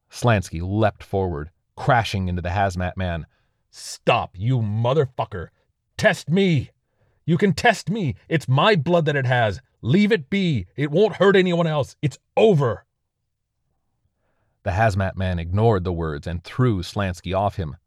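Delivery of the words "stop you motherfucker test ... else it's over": high, loud pleading shouts; a wounded soldier shouting while grappling; desperate yelling. Acted. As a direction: yell to stop him firing. Slansky tackles and yells at officer.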